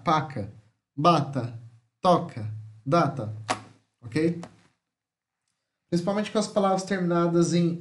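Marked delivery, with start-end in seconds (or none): 0.0-3.3 Paca, Bata, Toca, Data each with a weakened final A; weak final A. Shown as a demonstration. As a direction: punch the first syllable of Paca, Bata, Toca, Data, let the A fade. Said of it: "começa a ficar mais fraco".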